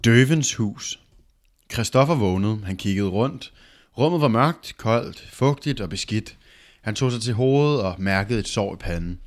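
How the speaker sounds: deliberate read-aloud with punched openings; story narration. A narrator's reading. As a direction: read the tale out in measured phrases.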